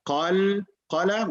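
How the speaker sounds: Qalqala said slowly with bouncing q sounds; echoing qalqala. Shown as a demonstration. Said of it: "there will be an echo".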